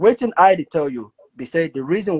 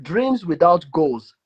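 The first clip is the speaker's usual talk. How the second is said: reciting a motto. Retold or imitated. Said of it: "It says like this".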